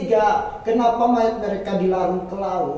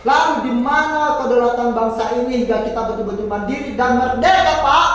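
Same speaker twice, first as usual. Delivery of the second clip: rising rhetorical outcry; 3 semitones higher, 5 dB louder than usual. Real, not acted. Rhetorical climax of the debate.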